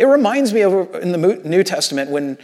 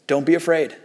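low-key, lightly quoted reassurance; retold calming words, gently understated; 3 semitones lower, 4 dB quieter than usual. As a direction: reassure quietly, without pushing. Quoting Nehemiah, first take understated.

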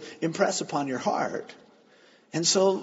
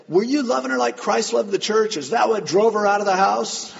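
raised, forceful questioning; confronting; 5 semitones higher, 5 dB louder than usual. Retold or imitated. Pastor challenging the abandoned husband, confronting. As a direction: press him hard, louder and higher.

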